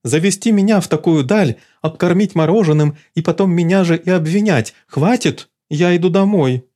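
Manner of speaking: high haughty outrage; indignant. Acted. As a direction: storm off offended. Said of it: "возмутилась она".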